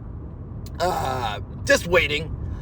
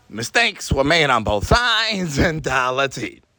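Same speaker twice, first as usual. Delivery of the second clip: mock recitation; 4 semitones lower, slower than usual. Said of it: "Repeat after me".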